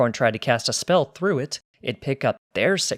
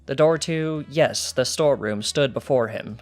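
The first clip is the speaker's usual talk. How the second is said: steady storyteller read; story narration. A narrator's reading. Narrator reading the heist story to the guard, steady storytelling.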